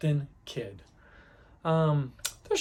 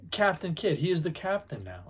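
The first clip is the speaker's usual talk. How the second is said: normal talking voice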